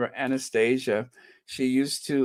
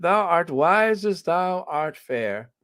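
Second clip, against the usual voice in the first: put-on higher, lightly theatrical old Elizabethan English on "Thou art wise as thou art fair"; mock Elizabethan English; 6 semitones higher, slower than usual. Shown as a demonstration. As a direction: put on a playful olde-English flourish, a touch slow. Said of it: "in that very old Elizabethan English".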